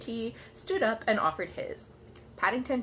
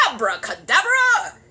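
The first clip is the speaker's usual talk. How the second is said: loud, slow furious shout; raging shout; 6 semitones higher, 12 dB louder, slower than usual. Acted. Curry to Paddington, raging shout. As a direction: bellow it in a rage. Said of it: "shouted Mister Curry, beside himself with rage".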